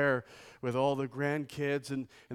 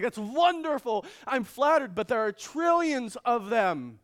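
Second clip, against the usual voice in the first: mock gracious; 7 semitones higher, 6 dB louder than usual. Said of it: "it's like".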